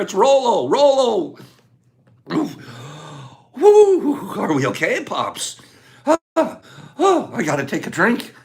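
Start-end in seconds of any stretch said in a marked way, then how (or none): 2.3-8.3 winded, puffing between short phrases; out of breath. Real, not acted. Host recovering after being wiped out by players, out of breath. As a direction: catch your breath after a long frantic round. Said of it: "When Pops gets out of breath".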